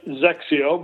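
Zexio said slowly with an opening Z; pronunciation shown. Shown as a demonstration. Guest confirms the name for host, Zexio pronounced ZEK-see-oh. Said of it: "you pronounce it like it was".

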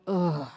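low, soft groan of dismay; collective groan. Shown as a demonstration. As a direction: sigh out a weary groan. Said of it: "let out a collective groan".

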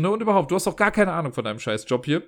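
mildly angry retelling of the retort. Retold or imitated. To the house manager about his job, mock angry. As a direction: tell him off, angrier version. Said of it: "echt sauer geworden".

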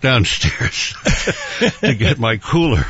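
winded from the stairs, catching breath; gasping between phrases after a climb. Real, not acted. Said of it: "and I'm out of breath".

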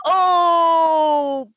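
teasing oh burn; gleeful burn. Retold or imitated. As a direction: savor the insult with delight. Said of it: "I was like".

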